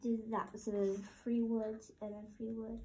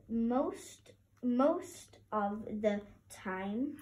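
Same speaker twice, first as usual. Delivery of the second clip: "most" drawn out and stressed, slow phrase; emphasis on most; slower than usual. Real, not acted. Child reading a bold word aloud to teacher, emphasis on most. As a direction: read it slowly, leaning on "most". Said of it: "you emphasise that word most".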